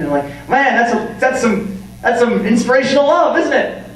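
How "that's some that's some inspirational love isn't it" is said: sarcastic rant. Real, not acted. Single friend fed up with boyfriend talk, sarcastic shouting. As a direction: yell the praise so it drips with sarcasm.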